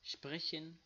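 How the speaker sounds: شپرشن with a clear sh before the p; German word spoken carefully. Shown as a demonstration. Teacher modeling a German word for students, careful pronunciation. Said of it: "مثالایش هم است".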